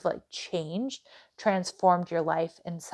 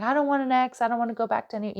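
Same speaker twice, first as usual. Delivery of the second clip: lightly mocked, higher-pitched viewer objection; a hint of a whiny protest, pitched up; complaining commenter; 4 semitones higher, faster than usual. Tarot reader imitating a viewer's comment, lightly voiced complaint. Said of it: "I know I'll get a comment".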